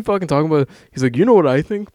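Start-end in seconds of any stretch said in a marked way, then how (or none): 1.2-1.9 loud, high mimicry of a motivational mogul; Gary V impression. Podcaster retrying his mogul impression for his co-host, mock guru voice. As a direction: throw out the catchphrase louder and higher, as an imitation. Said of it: "not even gonna try to do it".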